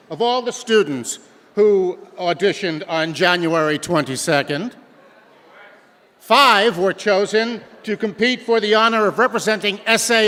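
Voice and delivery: loud, formal address to a hall; projected announcer. Acted. Host opens the final round of the school competition, projected announcer. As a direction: project each phrase to the back row.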